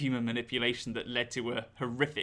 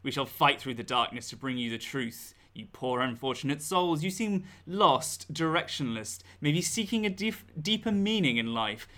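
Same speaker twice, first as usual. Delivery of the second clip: theatrical horror host voice. Acted. Spooky horror host intro.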